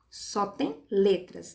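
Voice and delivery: "Só tem" said slowly, then a pause before "letras"; slow, deliberate "Só tem", set apart for emphasis; stress on SÓ TEM. Shown as a demonstration. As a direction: spell out the limit with a slow "Só tem". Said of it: "Quando a gente fala só tem".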